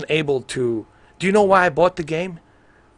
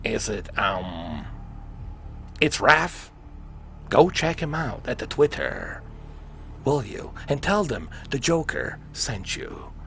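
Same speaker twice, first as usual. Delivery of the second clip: slow, drawn-out villain host voice, lightly put on; Joker voice; 3 dB quieter, slower than usual. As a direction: announce like a sly Joker. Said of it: "Joker voice".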